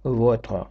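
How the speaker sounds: "votre" without the final e; silent final e. Shown as a demonstration. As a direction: end "votre" on tr, the e unspoken. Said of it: "І так слово читається".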